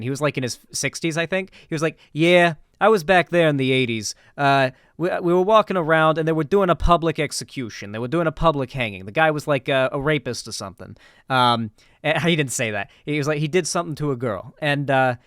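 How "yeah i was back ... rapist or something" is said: imitating an old New York teacher; a hint of a thick New York accent. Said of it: "he's got this thick New York accent".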